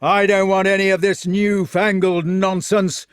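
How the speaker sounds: loud, high, scornful rant; furious shouting. A narrator's reading. Fat knight refusing his foe a fair fight, shouting furiously. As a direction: bellow with outraged contempt.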